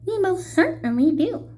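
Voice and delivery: high, chirpy little mayor; the tiny mayor answering Horton; piping tiny voice. A narrator's reading. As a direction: pipe it up eagerly. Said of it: "piped the voice".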